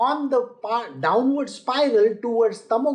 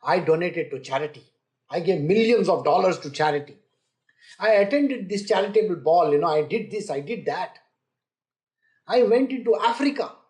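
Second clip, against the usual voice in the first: mildly imitating a smug rich donor bragging; lightly voiced bragging philanthropist, mostly louder; boastful rich donor; 3 dB louder than usual. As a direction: show off each donation like a proud trophy. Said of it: "the way they talk about goodness".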